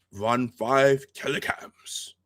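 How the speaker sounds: slow, drawn-out Klingon countdown; Maltz. Retold or imitated. Maltz counts down the kellicams, slow Klingon voice. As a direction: stretch out each alien-sounding number. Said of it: "That's the way it sounds".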